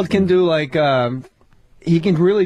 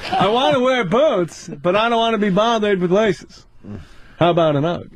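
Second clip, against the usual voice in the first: Seinfeld impression. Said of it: "What's the deal".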